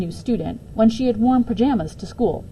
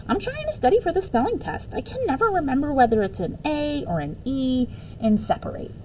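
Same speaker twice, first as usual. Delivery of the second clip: put-on high, earnest little girl; a young girl explains her spelling worry; girl's voice; 6 semitones higher than usual. High, earnest schoolgirl. Gooney Bird voiced in story.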